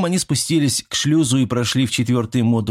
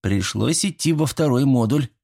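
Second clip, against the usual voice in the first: mildly reproachful, a touch higher; gently chide, half joking; light reproach; 5 semitones higher than usual. Acted. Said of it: "с лёгкой укоризной заявила она". (с лёгкой укоризной)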